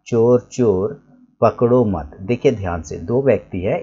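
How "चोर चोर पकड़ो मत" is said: चोर चोर पकड़ो मत drawn out slowly, मत closing it; slow phrase ending on मत. Shown as a demonstration. Teacher reads as he writes, slowly, मत joined to पकड़ो. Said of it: "मैं अगर ऐसे लिखूं".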